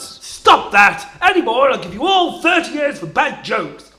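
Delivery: bang the gavel with your voice; stern judge. Acted. Judge scolding courtroom.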